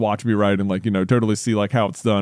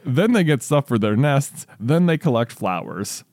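deliberate storybook reading; story read-aloud; 2 semitones higher than usual. Real, not acted. Reads child's story aloud.

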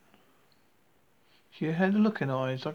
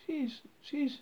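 haughty princess voice; 5 semitones higher, slower than usual. Acted. Haughty sister's jibe continues.

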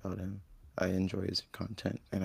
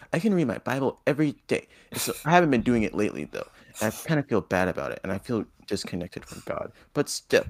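pious churchgoer voice; 5 dB louder than usual. Retold or imitated. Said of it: "You say it like you're reading".

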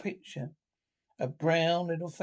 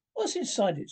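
curious Mole; 6 semitones higher than usual. Acted. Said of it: "wriggling curiously".

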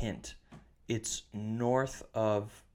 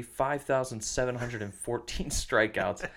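slow, drawn-out figure breaking into a laugh; real chuckle creeping in at the end; can't quite get through it straight-faced; laughing a little. Real, not acted. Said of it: "without laughing a little bit".

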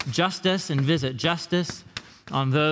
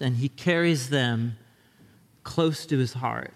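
gentle scripture reading; 2 semitones lower than usual. Acted. Reads shepherd verse gently.

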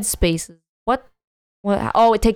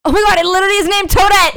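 high, fast burst of laughing disbelief; amazed laughter; 9 semitones higher, 4 dB louder, much faster than usual. Real, not acted. Reacting to a friend's correct guess, amazed and laughing. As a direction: blurt it out quickly through laughter.

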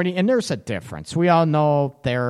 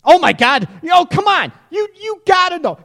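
high, loud teasing protest; incredulous; 5 dB louder than usual. Real, not acted. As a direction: protest in exasperated disbelief. Disbelieves co-host's denial.

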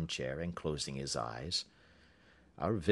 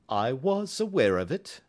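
dry; 8 semitones higher, 6 dB louder than usual. A narrator's reading. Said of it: "said Holmes dryly".

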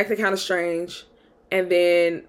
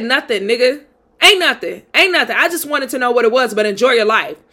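mildly heated retold retort, pitched up; mock-irritated dismissal, brushing him off; pissed off; 2 semitones higher than usual. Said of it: "I got pissed off".

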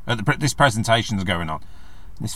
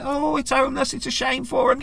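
mock pity; 14 semitones higher than usual. Mocking do-gooders' pity.

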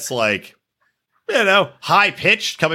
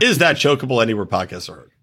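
mock promo sign-off; 4 semitones lower, faster than usual.

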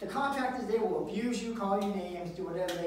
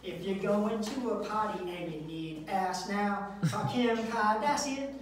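lightly voiced ad read; hint of a late-night commercial; mock commercial; slower than usual. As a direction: read it like a cheesy TV ad. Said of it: "it goes something like this".

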